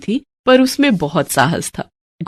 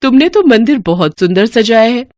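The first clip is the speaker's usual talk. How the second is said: mistress's voice. Acted. Mistress tells Gomti how to clean the temple, brisk. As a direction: instruct the servant kindly but firmly.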